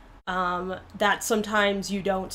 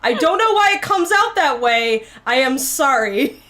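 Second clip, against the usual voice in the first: raised, louder mock-distressed plea; exasperated apology; 2 semitones higher, 4 dB louder than usual. Real, not acted. Apologizing for French-sounding Spanish, exasperated. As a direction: protest helplessly, stretching the apology.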